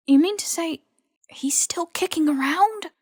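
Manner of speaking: hissed. A narrator's reading. Ron hissing at Hermione in the garden, unvoiced. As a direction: hiss it in shock. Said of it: "Ron hissed".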